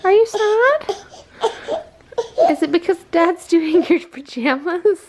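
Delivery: laughing coo. Acted. Cooing through laughter at the baby.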